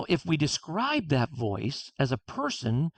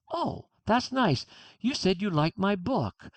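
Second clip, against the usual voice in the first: a light touch of gratitude; gracious and pleased; 3 semitones higher than usual. Retold or imitated. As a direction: take the compliment in gladly. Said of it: "I take that in".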